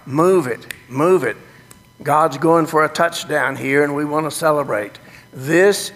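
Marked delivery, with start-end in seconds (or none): 0.1-1.4 urging on. Real, not acted. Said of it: "cut my last syllable off and you start".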